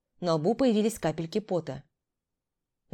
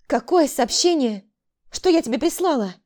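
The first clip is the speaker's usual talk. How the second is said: cutting in; 7 semitones higher, 6 dB louder than usual. A narrator's reading. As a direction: break in with a heated question. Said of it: "Перебила Тамара". (возмущённо перебивая)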